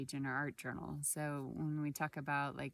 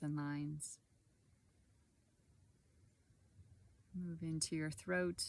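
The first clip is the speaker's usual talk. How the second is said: calm meditation guide, long pauses between short phrases; guided body scan. Acted. Guide leading listeners through a body scan, calm and unhurried. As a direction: guide gently through the body, leaving space after each phrase.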